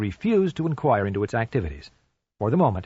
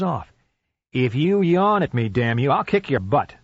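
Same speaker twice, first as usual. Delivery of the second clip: lightly voiced exasperated man; half-joking irritation at the dog; irritated owner; 3 semitones higher than usual.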